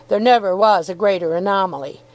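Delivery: usual speaking voice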